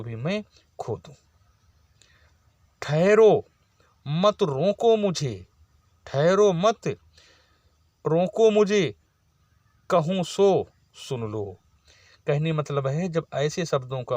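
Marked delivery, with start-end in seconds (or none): 2.8-11.5 slow, declaimed verse with a strong first word; poem recital. Shown as a demonstration. Teacher reciting Kaikeyi's plea to the assembly, declaimed verse. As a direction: declaim Kaikeyi's lines to the class.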